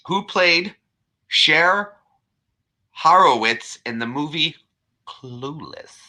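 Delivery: halting question in a Scottish brogue; put-on Scottish quiz voice; Scottish accent. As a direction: read it like a Scottish quizmaster, pausing between phrases. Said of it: "I've got to talk like I'm Scottish".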